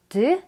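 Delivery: "드" as a voiced d; d ending. Shown as a demonstration. Teacher listing three past-tense endings, voiced d "드". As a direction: give "드" as a bare voiced d release. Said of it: "요렇게 끝나는 끝소리가 다른데요".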